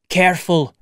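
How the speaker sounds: mild urgent warning; a touch of alarm; cried warning. Acted. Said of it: "cried Montgomery".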